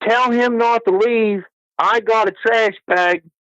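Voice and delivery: acted-out hollering, very high pitched. Retelling a back-and-forth, imitating a woman hollering from the background. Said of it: "I heard her holler".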